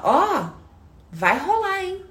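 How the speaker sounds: a boss hinting a promotion with a grin. Acted. Boss announcing promotion, voiced.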